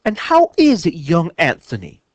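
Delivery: mock posh British, teasing; hammed-up British accent teasing her friend; fake British accent. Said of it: "fake British accent".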